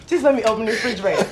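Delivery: rapid comic patter with a laugh; quick, amused comedian impression; Kevin Hart. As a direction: rush it like a stand-up bit. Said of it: "I need Kevin Hart".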